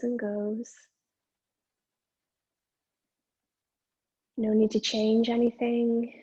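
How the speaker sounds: measured meditation guidance, pausing between phrases; guided meditation. Acted. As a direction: guide attention to the breath, leaving long silences.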